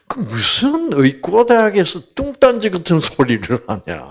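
high, indignant mock outburst; indignant retort. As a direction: scoff in retold annoyance, starting high and falling. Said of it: "화를 내면서".

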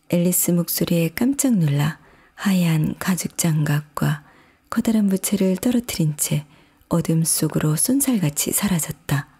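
ordinary delivery, nothing marked

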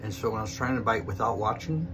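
talking with food at teeth; speaking while chewing; biting into cheese. Real, not acted. Seen 1: Cheese between teeth at 2.3–3.0, bitten; mouth working after.

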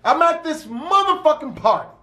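high, excited shout of party news; hyped party caller. Retold or imitated. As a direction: sell the bomb-ass party over the phone. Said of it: "he's like".

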